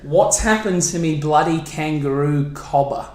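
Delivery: a broad Australian accent, lightly put on. Shown as a demonstration. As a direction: say it like an Aussie bloke. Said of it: "you can do an Australian accent".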